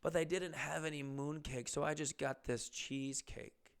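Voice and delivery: softly imitated Chinese accent. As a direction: quote her quietly with a light Chinese accent. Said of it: "does have a thick Chinese accent".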